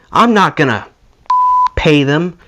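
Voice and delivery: put-on thick Swedish accent, indignant; angry Swedish accent. Bandmate refusing to pay the bill, angry Swedish accent. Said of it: "with this thick Swedish accent that comes out when he's pissed off".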